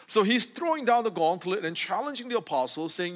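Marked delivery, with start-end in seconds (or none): none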